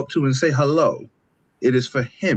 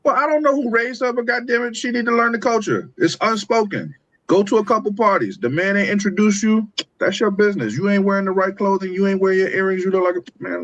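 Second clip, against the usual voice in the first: much higher, exasperated scolding; indignant rant; 8 semitones higher than usual. Real, not acted. Panelist scolding the woman who got ignored, high and exasperated. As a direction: climb high and lecture her like an outraged auntie.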